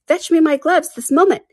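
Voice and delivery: a touch of imperious command; bossy Rabbit. A narrator's reading. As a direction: give the order in a high voice. Rabbit orders his servant about.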